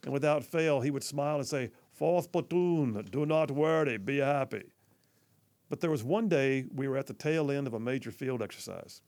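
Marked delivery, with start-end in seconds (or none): 1.9-4.7 slow, drawn-out mimicry of a squadmate's catchphrase; imitating Bosco. Soldier cheering up his platoon on request, lightly imitated. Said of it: "he had a really deep voice".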